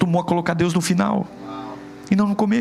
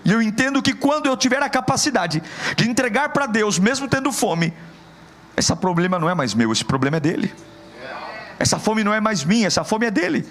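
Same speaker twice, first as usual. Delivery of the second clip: high, driving sermon voice; fervent Portuguese preacher; preaching at full force; 6 semitones higher than usual. Acted. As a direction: push every line up like a rising altar call.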